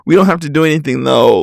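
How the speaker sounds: lightly imitated flirty player; mock a smooth-talking hookup guy, tossing in hollow hahas; mild send-up of a fuckboy's come-on; stereotypical fuckboy. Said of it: "this is literally how they talk".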